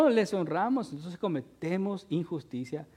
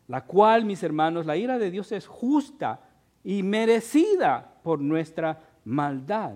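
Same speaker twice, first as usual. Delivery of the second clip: ordinary delivery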